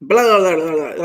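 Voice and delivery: rattled-off mock babble; mock gibberish rattle. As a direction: imitate a stranger's fast chatter. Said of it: "rattling shit off".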